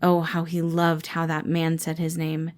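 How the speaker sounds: ordinary delivery, nothing marked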